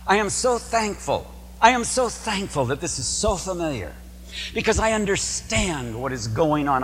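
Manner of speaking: thankful worshipper voice. Pretend. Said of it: "And so you come in".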